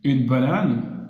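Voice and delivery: Une banane said slowly, falling; slow French word. Shown as a demonstration. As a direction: spell out Une banane syllable by syllable. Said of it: "mais on dit a banane".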